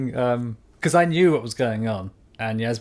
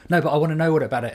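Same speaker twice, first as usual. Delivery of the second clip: nagging wife; 4 semitones higher, much faster than usual. Retold or imitated.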